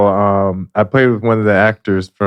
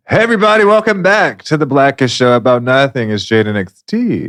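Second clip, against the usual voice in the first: show host intro. Acted.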